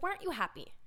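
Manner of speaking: put-on a naive kid telling grown-ups to cheer up; impatient child. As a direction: lecture them like it's obvious. Younger self scolding sad relatives.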